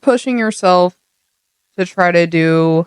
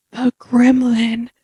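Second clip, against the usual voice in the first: slow, drawn-out gremlin voice, swelling louder; playful gremlin takeover, higher and dragged out; gremlin rising; 6 semitones higher, 3 dB louder, much slower than usual. Pretend. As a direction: stretch each word as the creature takes over. Announces an inner gremlin taking over.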